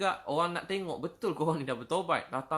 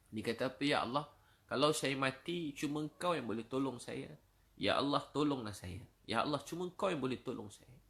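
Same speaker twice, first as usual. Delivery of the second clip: tearful prayer; 3 dB quieter than usual. Acted. Sinner's tearful prayer voiced.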